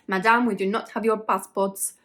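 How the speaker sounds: hammed-up French accent, badly faked; terrible French accent. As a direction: imitate the hotel man in a bad French accent. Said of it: "that was a terrible accent".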